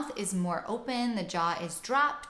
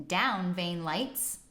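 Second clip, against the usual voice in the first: slow Rochester New York accent on the phrase; slower than usual. Shown as a demonstration. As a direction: say it like someone from Rochester. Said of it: "if you are from Rochester, New York".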